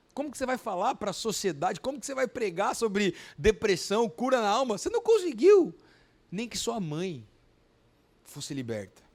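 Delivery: rising mocking taunt with a laugh; voice of Satan mocking. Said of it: "foi a voz do, do, de Satanás".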